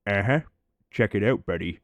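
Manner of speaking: very slow, lightly voiced show-off; mock proud of the old van; imitating Mike bragging. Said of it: "So he'd be like".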